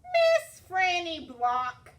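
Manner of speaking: loud, slow, calling her name; urgent call. Acted. Girl calls out to the frightened librarian, urgent.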